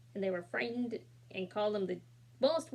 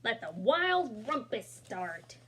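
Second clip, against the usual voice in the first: mild proclamation; slower than usual. Acted. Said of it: "cried Max".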